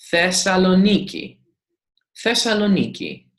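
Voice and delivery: 'Thessaloniki' with the beat on NI; stress on NI. Shown as a demonstration. Greek teacher names the city, stress on NI. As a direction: lean on the NI in 'Thessaloniki', then let it fall. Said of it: "the stress accent tells us how to pronounce".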